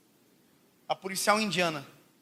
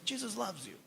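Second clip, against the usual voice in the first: much softer, trailing off almost to nothing; timid whisper-soft; 15 dB quieter, slower than usual. Retold or imitated. Preacher retelling his first shy try at witnessing: a nearly vanishing murmur. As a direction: barely dare to say it.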